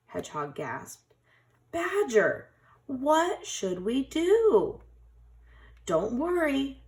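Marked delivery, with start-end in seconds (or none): 1.7-4.8 worried plea. A narrator's reading. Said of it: "worried animals ask Badger". 5.9-6.8 reassuring. A narrator's reading. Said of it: "smiled Badger".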